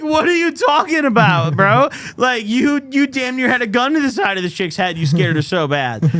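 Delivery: incredulous yell. Retold or imitated. Telling his friend he scared the girl, loud incredulous yelling. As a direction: shout at him in disbelief. Narrator yells at friend in retelling.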